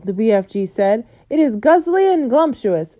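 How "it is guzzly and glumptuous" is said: higher, louder shout; shouting giant. A narrator's reading. Bloodbottler shouting back at the BFG, higher and loud. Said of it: "shouted the blood bottler".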